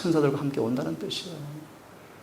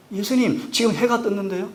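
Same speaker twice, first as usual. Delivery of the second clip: higher, incredulous protest; surprised Peter; 7 semitones higher, 5 dB louder than usual. Retold or imitated. Peter to Jesus, incredulous higher objection. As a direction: Peter balking at fishing by day.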